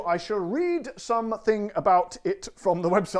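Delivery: words slowing, spaced out one by one; like batteries running out. Real, not acted. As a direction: let the sentence drag as if winding down. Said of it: "I don't know why I slowed down".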